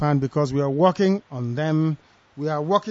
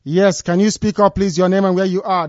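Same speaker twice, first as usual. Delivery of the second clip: raised voice asking to speak up; to someone hard of hearing; 2 semitones higher, 6 dB louder than usual. Real, not acted.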